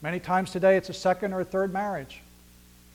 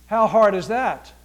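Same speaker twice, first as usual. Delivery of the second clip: loud slow challenge; 8 dB louder, slower than usual. Real, not acted.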